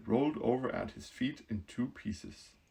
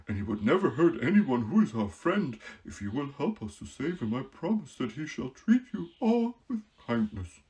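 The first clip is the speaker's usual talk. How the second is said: a touch louder, earnest promise; lightly voiced Scarecrow; 2 semitones higher, 5 dB louder than usual. Scarecrow promising the queen, lightly voiced.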